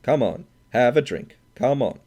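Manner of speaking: put-on hearty drunk insisting; drunken babble. A narrator's reading. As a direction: push the drink on him, tipsy and loud. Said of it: "babbling at the barkeeper".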